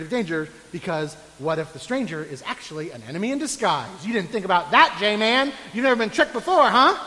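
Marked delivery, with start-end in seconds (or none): 4.0-7.0 mock scolding.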